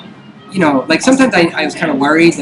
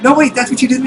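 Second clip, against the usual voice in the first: mock realisation; 8 semitones higher than usual. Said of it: "I was like".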